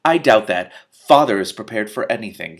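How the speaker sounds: proud sneer of a spoiled heir; lightly voiced Draco Malfoy. Wizard boasting of his father, mild sneer. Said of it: "He sounds like Draco Malfoy".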